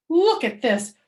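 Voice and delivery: loud, high, complaining grouch; grouchy. Acted. May complains to the teacher, loud and grouchy. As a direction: whine it like a furious kid. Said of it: "she grouched".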